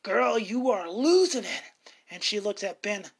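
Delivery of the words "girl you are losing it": mild mock shout. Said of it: "Ben finally shouts at Barbara".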